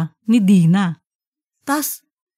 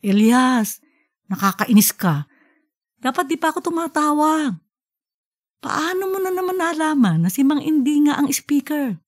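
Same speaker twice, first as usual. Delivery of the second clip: laughing scolding; 5 semitones higher than usual. Acted. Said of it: "Tumawa na si Aling Usga".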